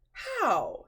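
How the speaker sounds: high, loud startled "How?"; startled exclamation. Acted. Fortunato startled by news of Amontillado, high loud exclamation. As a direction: jolt up in sudden surprise.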